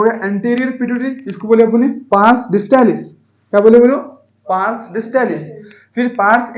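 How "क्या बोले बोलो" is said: prompting loudly. Real, not acted. Teacher prompts class to answer.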